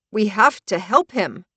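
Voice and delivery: pleading, voice cracking; cracked and weak. Acted. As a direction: plead with a breaking voice. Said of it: "my voice cracked and weak".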